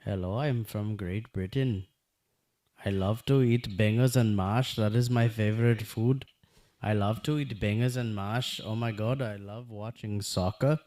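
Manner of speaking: loud, hammed-up British accent; badly faked British, proudly declaimed. Shown as a demonstration. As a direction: show off a mock British accent. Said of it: "let me do a Brit-, British accent".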